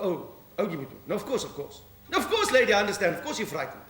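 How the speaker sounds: lightly voiced police sergeant answering the phone; policewoman on the phone. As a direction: play the duty sergeant taking a call. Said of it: "Sergeant Minnie".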